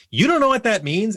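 high-pitched imitated disbelief; mock incredulity. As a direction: jeer it as a rising question. Senior's mocking question, retold.

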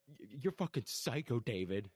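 high, stammered imitation of fright; retold terror. Sawyer backing away from David, imitated terror. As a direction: stumble into a scared mock accusation. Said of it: "terror fucking face".

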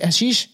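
"Hashish" as questioning ha-SHEESH, rising; trying the pronunciation. Shown as a demonstration. Reader checking the co-host's correction, tentative ha-SHEESH.

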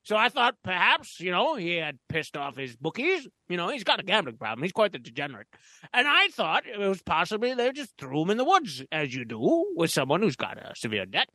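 lightly voiced pompous gent; a hint of a stuffy gentleman; pompous storyteller. Holds a pompous character voice.

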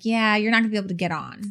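calm, offhand imitation of the agent. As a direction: say it quickly, without any fuss. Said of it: "he said it so calmly".

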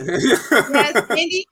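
confident. Real, not acted. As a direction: say it firmly, no doubt. Answers again with confidence.

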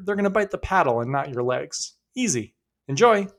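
put-on surf instructor voice in a self-admittedly weak Australian accent. Surf instructor calling to kayakers, in a light Australian accent. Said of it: "pretend this is in an Australian accent".

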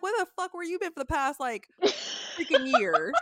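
hammed-up outrage at a friend; mock furious reply. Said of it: "I'm like".

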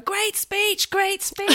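high, quick praise in passing; quoting Idris. Retold or imitated. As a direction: toss off a friendly compliment. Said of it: "Idris was going".

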